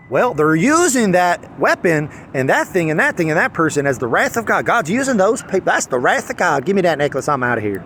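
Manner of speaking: lightly put-on preacher accent; mock a preacher with a hint of accent; Frank Turek. Pastor justifying it as God's wrath, mild mock accent. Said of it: "why I'm giving him that accent".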